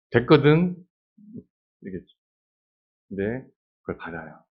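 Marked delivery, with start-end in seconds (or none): 0.1-0.7 a high, curt brush-off; sassy no thanks. Pretend. Hannah curtly refuses the priest's blessing. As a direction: wave it away with attitude.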